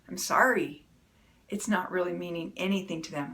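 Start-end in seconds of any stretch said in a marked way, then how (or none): 0.1-0.9 a curt, falling sorry with no warmth; grudging sorry. Shown as a demonstration. Spouse gives an apology after a fight in a grudging tone. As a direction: toss off the sorry as if it means nothing. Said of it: "with the tone of voice of".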